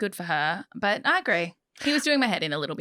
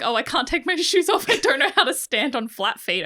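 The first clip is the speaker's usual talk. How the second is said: mocking whiny voice; 6 semitones higher, 4 dB louder than usual. Mocking Carrie's whiny excuse.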